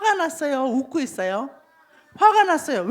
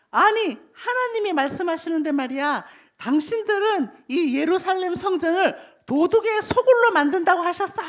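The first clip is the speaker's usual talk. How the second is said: mildly angry, raised-pitch scolding; angry prophet; 4 semitones higher than usual. Acted. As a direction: rebuke the crowd in God's name. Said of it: "예레미야가 화가 나가지고". (화난 예언자처럼 높은 어조로 꾸짖듯)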